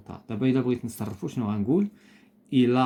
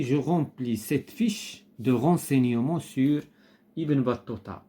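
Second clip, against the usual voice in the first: instruction read aloud; much slower than usual. Shown as a demonstration. Teacher reads exercise instruction aloud.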